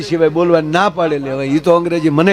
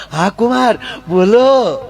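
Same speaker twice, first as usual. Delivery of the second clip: delighted mother-in-law; 5 semitones higher, slower than usual. Retold or imitated. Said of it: "હાહુનું મોઢું પડ્યું લાપસી ખાવા".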